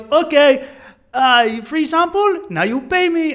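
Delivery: high, loud, slow hustler impression; Colombian street hustler. Hustler demanding money for sample, high imitated voice. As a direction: demand payment as the imitated tout. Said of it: "and he goes".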